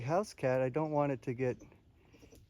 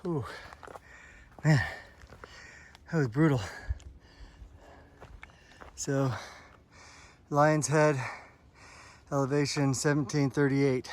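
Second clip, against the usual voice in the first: out of breath. Real, not acted. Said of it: "Gotta catch my breath".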